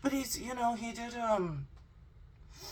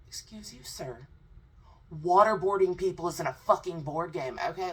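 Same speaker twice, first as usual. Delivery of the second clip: mock stern retort; 2 semitones higher, 7 dB louder than usual. Real, not acted. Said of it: "That's why I said".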